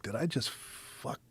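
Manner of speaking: slow breathy whisper to himself; thinking he blew his chance, hushed; worried whisper. Retold or imitated. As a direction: dread it under your breath. Inner worry whispered.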